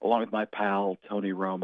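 a hint of a smooth, hushed announcer; lightly voiced Nantz greeting; Jim Nantz. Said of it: "Nantz called me".

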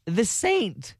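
light Irish lilt; leprechaun. Real, not acted. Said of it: "Why'd you sound like a leprechaun".

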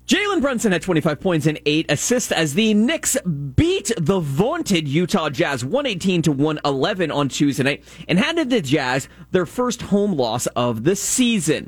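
measured sports update read; sports news read. Real, not acted. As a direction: read the scores like a radio update.

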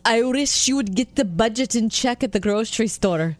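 lightly voiced talking dog. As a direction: put on a playful dog voice. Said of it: "say it using the dog voice".

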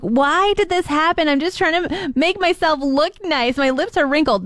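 playful self-pitying protest; mock lament. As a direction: bemoan it, half-joking. Jokingly retold complaint about injury.

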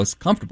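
"comfortable" squeezed to comf-ter-ble; three syllables. Shown as a demonstration. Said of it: "if you don't pronounce every syllable".

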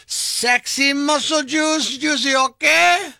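slow, drawn-out sexy purr; hammy sultry voice.

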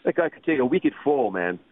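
lightly put-on Boston accent; imitated Boston accent. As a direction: have a go at a Boston guy's accent. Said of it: "saying that with a Boston accent".

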